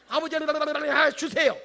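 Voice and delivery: slow, loud whiny begging; whining plea. Pretend. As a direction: beg the father like a child. (느리고 크게 칭얼대며 조르듯)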